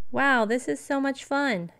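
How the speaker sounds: cub's delighted mock yell in the snow; mild yell. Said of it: "yelled Bastian".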